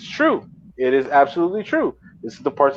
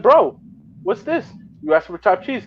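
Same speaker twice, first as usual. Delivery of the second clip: re-enacted high-pitched protest; incredulous complaint; 10 semitones higher than usual. Customer going back to the bodega man, incredulous. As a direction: act out demanding an explanation, pitched up. Retold complaint to store owner.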